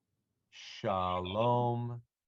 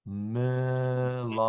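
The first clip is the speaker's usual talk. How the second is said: "Melachim" said slowly and clearly; slow modelling; 2 semitones higher, slower than usual. Shown as a demonstration. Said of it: "Once more".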